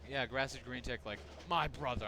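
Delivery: loud TikToker catchphrase voice; mock TikToker slang, loud; stupid TikToker. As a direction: punch it out like a silly TikToker. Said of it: "sound like a stupid, like, TikToker".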